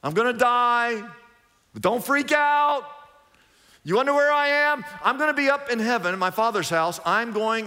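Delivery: calm panicked friends cheerfully; a hint of a casual Jesus voice; paraphrased Jesus. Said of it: "But he said".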